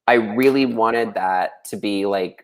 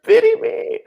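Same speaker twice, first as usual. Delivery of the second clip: very high squealing pity me; shrieked pity plea; slower than usual. Pretend. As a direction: shriek it like a melodrama. Echoing the mock plea.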